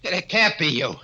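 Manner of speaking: high, stammering horror; terrified disbelief. Acted. Gangster faces his dead partner, high terrified stammer. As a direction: gasp it out as if seeing a ghost. Seeing the dead man alive.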